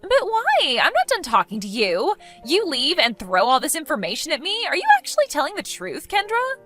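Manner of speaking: affronted, pitch leaping on the questions; indignant protest. Acted. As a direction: object as if cut off mid-gossip. Protests as the other ends chat.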